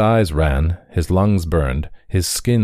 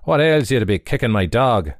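indignant, raised challenge; shocked anger; 5 semitones higher than usual. Acted. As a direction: demand an answer. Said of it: "shocked out of his usual good humour".

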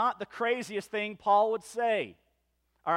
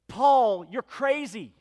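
incredulous exclamation; 3 semitones higher, 6 dB louder, slower than usual. Acted. Challenging Paul over his afflictions, incredulous exclamation.

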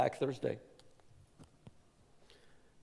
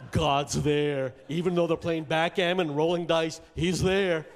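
laughing; 6 semitones higher, 9 dB louder than usual. Real, not acted. Laughing excited remark.

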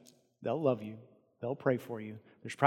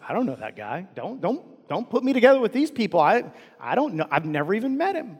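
high, rising, flustered protest; frantic, rising denial; panicked denial; 5 semitones higher than usual. Retold or imitated. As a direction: scramble to push the accusation away. Peter panicking, denying Jesus.

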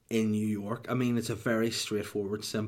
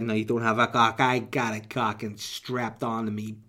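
mobster taunt; slower than usual. Acted. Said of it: "I'd be like".

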